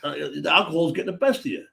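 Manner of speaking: high-pitched, exasperated warning; incredulous warning. Retold or imitated. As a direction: warn him like he's hopeless. Warning the drunk guy.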